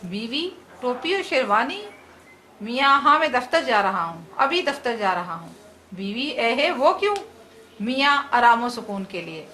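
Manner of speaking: lively comic play read aloud with light character voices; comic drama read for students; dramatic reading. Acted. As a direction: read the play to the class, bringing husband and wife to life. Teacher reads a comic drama aloud.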